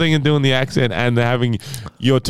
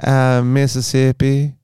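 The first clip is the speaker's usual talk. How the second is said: put-on Southern accent. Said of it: "little Mississippi Southern Belle".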